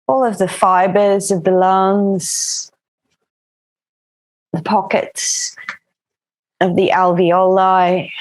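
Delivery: calm, even yoga-teacher voice with long pauses; settled meditation-class delivery; guided breathing practice. Acted. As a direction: guide them gently into the breath, unhurried.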